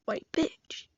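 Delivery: hushed, very soft confiding whisper. Acted. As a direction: whisper it to the teacher like a forbidden word. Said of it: "I, like, whispered to her".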